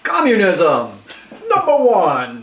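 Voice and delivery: put-on Russian accent, loud and laughing; proud Russian strongman voice. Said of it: "the greatest Russian accent I've ever heard".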